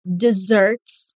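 She never, deserts, her projects, slowly in chunks; slow, chunked repeat. Shown as a demonstration. Teacher paces the class through the sentence slowly. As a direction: spell it out slowly with pauses. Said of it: "Say it with me".

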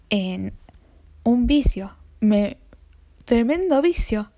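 talking through a yawn; words stretched by a yawn. Real, not acted. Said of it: "estoy bostezando".

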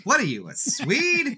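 high, loud, slow mock disbelief; incredulous Jeffrey. Friend quoting Jeffrey's question to the Norwegian guy, mock incredulous. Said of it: "Jeffrey just goes".

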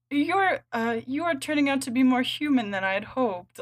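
a lightly voiced, disappointed Varvara pouting. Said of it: "she's pouting as she says it".

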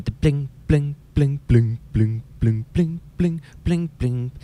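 put-on high, thin little-girl singing voice; mousy girl voice. Shown as a demonstration. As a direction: sing it tiny and mousy. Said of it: "like, a voice like that".

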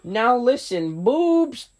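slow cartoon cowboy, then jumps high; hammy Western cartoon bark; Yosemite Sam.

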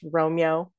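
"Romeo" merged into two syllables, ROM-yo; shortened "Romeo", middle vowel squeezed; elided name. Shown as a demonstration. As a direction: say "Romeo" as rome-yo. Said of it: "almost always pronounced".

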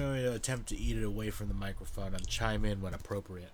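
talking through a mouthful; chewing while speaking; mouth full. Real, not acted. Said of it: "I'm eating a sandwich currently".

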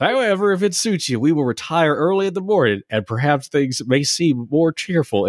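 high mock Texan accent, half-laughing. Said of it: "wherever the fuck that accent was from".

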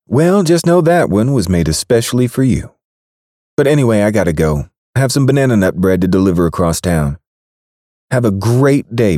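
a falsely sweet baker hurrying off; sweet woman's voice. Acted. Baker to Braxton after the muffin, sugary woman voice. Kat's voice in the story.

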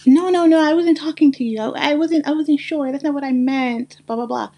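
mocking defensive excuses. Creator mimicking people who questioned her blackness, flustered and defensive. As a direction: imitate someone backpedalling, voice up high. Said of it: "Those are things that I was hearing".

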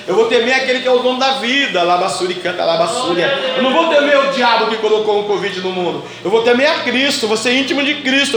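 loud, driving sermon; fervent preaching. Acted. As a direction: preach it with fire. Preaching at full force.

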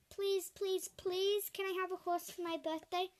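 put-on high pleading child; begging. A narrator's reading. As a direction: beg like a little girl. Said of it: "Lucy begged".

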